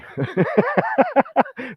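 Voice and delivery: a real amused high laugh. Real, not acted. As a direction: burst of high-pitched laughter. Laughs after own story.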